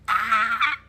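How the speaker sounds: mock cry of pain; re-enacted pain scream. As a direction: imitate yelling out at a needle jab. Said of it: "I have never screamed and stuff like that".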